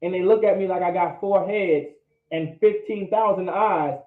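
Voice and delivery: usual speaking voice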